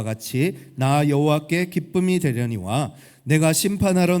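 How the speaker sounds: measured, declaimed Bible reading; scripture reading. Acted. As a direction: read the verses out to a congregation. Reads scripture aloud. (또박또박 힘 있게 성경 봉독)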